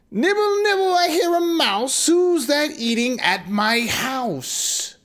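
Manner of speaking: very high, slow crone; sing-song it like a hungry witch. Acted. Witch voice in story.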